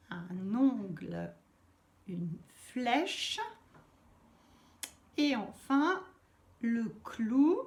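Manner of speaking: slow, spaced-out word list; careful dictation. Real, not acted. Teacher reading out exercise words to pupils, careful dictation. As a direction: read each item slowly, pausing between words.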